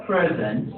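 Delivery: "present" as a noun, PREZ-ent; first-syllable stress. Shown as a demonstration. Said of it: "related to the noun".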